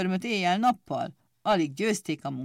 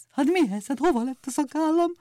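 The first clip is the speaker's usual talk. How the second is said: desperate cry; 8 semitones higher than usual. A narrator's reading. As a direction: wail over the lost beard. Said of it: "kétségbeesett kiáltás".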